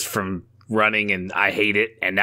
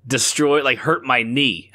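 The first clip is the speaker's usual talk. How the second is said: ordinary delivery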